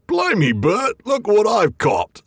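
a big dim troll crowing over his catch; troll William. Acted. William the troll calling Bert over to his catch, gleeful troll voice. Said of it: "said William".

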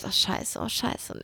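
breathless whispered curse; hushed horrified swearing; whispered panic. Retold or imitated. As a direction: mutter it under your breath in dread. Inner panic at cockroaches.

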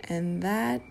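soft breathy whisper. Pretend. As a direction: whisper it like a butterfly. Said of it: "a whisper".

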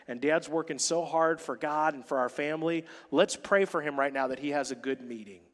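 calm the little one down softly; soothing mother. Retold or imitated. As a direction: mom soothing her crying four-year-old, tender and soft. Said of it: "And Julie's like".

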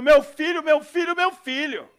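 put-on frantic mother yelling for her child; desperate shout. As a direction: cry out for your lost son. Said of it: "vem uma mãe desesperada, gritando".

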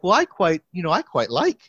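imitating a British professor's accent. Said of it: "I'm gonna try to do a British accent".

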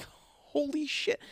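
high, slow, drawn-out holy shit; overjoyed, can't believe the luck; thrilled disbelief. Retold or imitated. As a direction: stretch it out in high amazement. Thrilled at manager news.

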